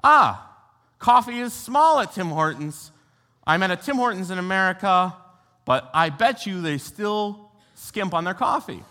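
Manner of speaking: a cheeky little realization; eager inner thought. Retold or imitated. Pastor recalling his drive-thru plan, mildly excited. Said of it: "I remembered to myself".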